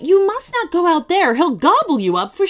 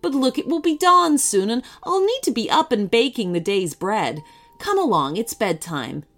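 soothing bedtime voice; gentle baker; 2 semitones higher than usual. Acted. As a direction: coax the child to bed. Baker sends to bed.

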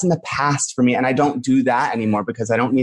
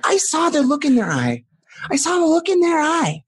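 scared, overwrought confession; 12 semitones higher than usual. Acted. Guest reliving the family being shrunk, distressed and scared. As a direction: plead your childhood hurt, pitched well up.

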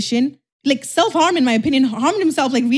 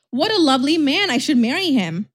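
mock admiration, pitched up at the start; sarcastic gushing; 4 semitones higher than usual. Woman mocking her ex's food apology, sarcastic gushing. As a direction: gush as if smitten, without meaning it.

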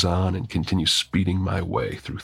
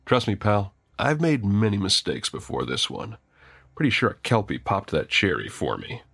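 cool and easy; 3 semitones higher than usual. Acted. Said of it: "with cool ease".

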